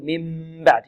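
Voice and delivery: من بعد with a tightly squeezed, humming m before the b; lips pressed too hard. Shown as a demonstration. Teacher mimicking a reader's mistake, lips over-pressed. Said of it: "أو يكز يقول".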